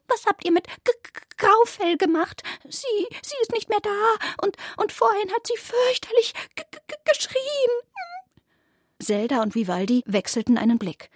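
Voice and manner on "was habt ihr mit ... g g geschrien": very high stuttering squeaky voice; tripping over the words in fear; frightened stammering rabbit. A narrator's reading. Rabbit asks the cats about missing Graufell.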